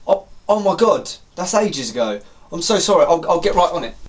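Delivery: acted-out alarmed apology; flustered apology. Barman to customer about a forgotten order, flustered apology.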